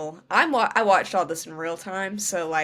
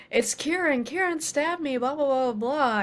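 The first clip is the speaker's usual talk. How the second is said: higher, panicked mock plea, bleeding; mock wounded Eli; 6 semitones higher than usual. Retelling Eli staggering in, hammed-up higher plea. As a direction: whine it like a stabbed guy. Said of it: "and he's like".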